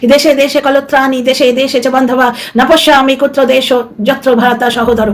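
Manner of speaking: slow Sanskrit verse recitation, measured; slow chanted shloka, each line even and deliberate; reciting a shloka. Retold or imitated. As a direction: intone the old verse slowly and reverently. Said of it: "ওই যে শ্লোকটা".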